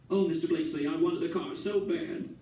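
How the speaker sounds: lightly tearful lady; crying. A narrator's reading. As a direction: plead through welling tears. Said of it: "She started crying again".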